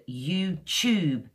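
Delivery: "YouTube" slowly, with ch in place of t; modern British "YouChoob". Shown as a demonstration. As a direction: say "YouTube" as "you-choob", long falling oo. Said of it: "is a ch sound".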